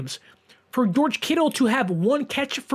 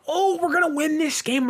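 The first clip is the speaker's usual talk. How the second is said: retold confidence; 7 semitones higher than usual. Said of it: "to be like".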